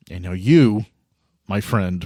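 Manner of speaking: ordinary talk, nothing marked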